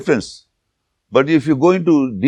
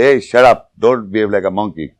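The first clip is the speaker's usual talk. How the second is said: mock scolding. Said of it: "we say".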